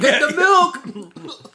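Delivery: loud and slow, through laughter; laughing shout. Real, not acted. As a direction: cry out laughing. Laughing shout at spicy snack.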